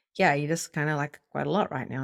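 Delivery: ordinary talk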